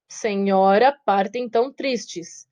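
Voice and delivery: slow, measured reading of the verse; syllable scansion. Shown as a demonstration. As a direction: count out the syllables slowly. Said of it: "oito sílabas gramaticais e sete sílabas métricas".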